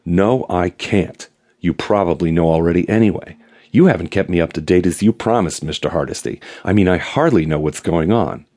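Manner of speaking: lightly voiced stern questioner; Gestapo interrogator. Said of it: "from excited schoolgirl to Gestapo interrogator".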